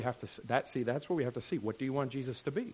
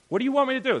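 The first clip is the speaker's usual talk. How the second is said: loud, high rhetorical question; emphatic question; 12 semitones higher, 9 dB louder, much faster than usual. Retold or imitated. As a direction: press the question home. Jesus voiced.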